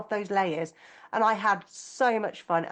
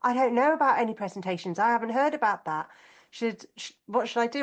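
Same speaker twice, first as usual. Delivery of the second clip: retelling a panicked daughter, higher; mildly flustered mock panic, pitched up; imitated panic; 3 semitones higher than usual. Daughter phoning mum about postponed presentations, imitated mild panic. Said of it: "she phoned me up in panic".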